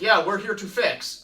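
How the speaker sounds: loud, slow, high mock Greek accent; thick Greek accent. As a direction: imitate a Greek handyman, slowly and loudly. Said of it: "this really thick Greek accent".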